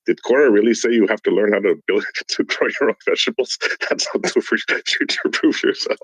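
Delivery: laughing bad Mexican accent, lightly done; a badly faked Mexican accent through giggles. Mocking seasonal Mexican workers in a bad Mexican accent. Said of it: "my Mexican accent is horrible".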